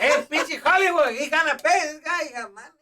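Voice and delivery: hammed-up dad bragging about his son; imitating his dad.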